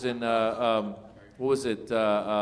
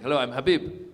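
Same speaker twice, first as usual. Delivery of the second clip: Habib. Retold or imitated. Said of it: "I just did some character".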